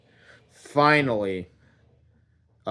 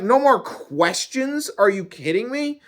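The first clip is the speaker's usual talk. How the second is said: incredulous; 10 semitones higher, 3 dB louder than usual. Acted. Man protesting God's ban on questions, incredulous. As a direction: throw it back in squeaky disbelief. Acted incredulous reply to God.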